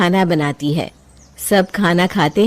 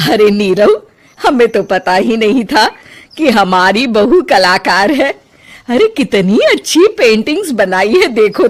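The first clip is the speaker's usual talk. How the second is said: delighted; 3 semitones higher, 5 dB louder than usual. Acted. Mother-in-law delighted by paintings.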